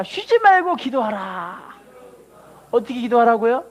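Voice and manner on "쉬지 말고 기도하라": very slow, deliberate recitation; slow call and response. Shown as a demonstration. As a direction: draw the words out to be repeated. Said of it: "따라합시다".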